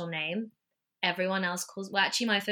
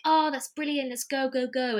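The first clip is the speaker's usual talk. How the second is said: higher, eager retold agreement; excited reply; 6 semitones higher, 4 dB louder than usual. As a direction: act out someone jumping at an idea. Retelling couple's keen reply.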